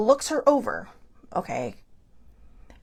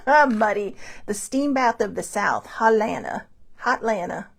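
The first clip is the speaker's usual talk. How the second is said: laughing. Real, not acted. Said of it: "I love it".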